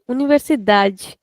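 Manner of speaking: "Universidade" with long "da", ending in "j"; clear open "da". Shown as a demonstration. Teacher modelling for a student, clear open DA. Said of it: "da is very distinct and very clear".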